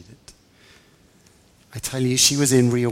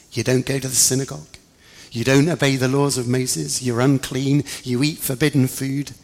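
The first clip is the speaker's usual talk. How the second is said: contemptuous scolding; 2 semitones higher than usual. Acted. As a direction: tear into her with contempt. James lists her faults.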